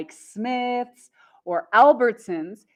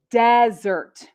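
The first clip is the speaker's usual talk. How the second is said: desert as loud DEZ-ert; desert with weak second syllable; noun stress on first syllable; 5 dB louder than usual. Shown as a demonstration. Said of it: "is the noun".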